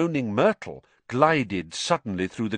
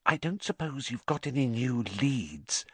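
softer, hushed aside; whispered; 3 semitones higher, 6 dB quieter than usual. Acted. Hermione asks Harry and Ron quietly so the nurse won't hear, hushed. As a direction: keep it from the nurse's ears. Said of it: "she added in a whisper".

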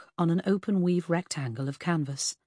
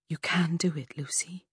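gentle reassurance. Acted. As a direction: coax her gently. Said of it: "she reassured her".

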